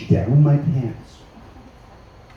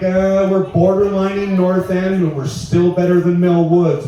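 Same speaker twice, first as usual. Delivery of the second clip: lightly voiced, higher, drawn-out mimicry; mock local woman; 6 semitones higher, slower than usual. Comic imitating audience woman from Castle Downs, mocking. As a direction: imitate her lightly with a raised pitch.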